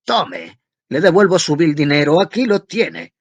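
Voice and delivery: high tenor shout. A narrator's reading. Student screaming at his mother in his highest tenor, loud. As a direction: scream it at the top of your voice. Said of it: "se puso a gritar con la nota de tenor más alta".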